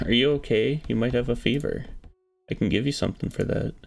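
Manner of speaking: sweetly fussing over his health; Anna's caring voice. Acted.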